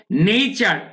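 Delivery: নেচার as "NEI-char", gliding first vowel; correct nature. Shown as a demonstration. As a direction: glide from E to I in নেচার. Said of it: "আমরা নেচার বা নেচার বলবো না".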